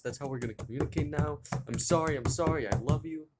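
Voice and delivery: imitating a flustered girlfriend apologizing fast; frantic girlfriend. Girlfriend losing her phone, babbling apologies in a rush.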